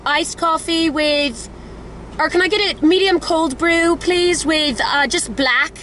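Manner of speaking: put-on hesitant amateur British accent. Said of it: "Thinking British".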